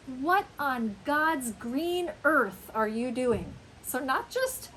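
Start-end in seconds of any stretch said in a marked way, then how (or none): 0.1-3.5 slow, drawn-out incredulity; emphatic disbelief. Shown as a demonstration. Teacher showing what some people say, slowly incredulous. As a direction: spread the astonishment over every stressed word. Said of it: "Some people even say".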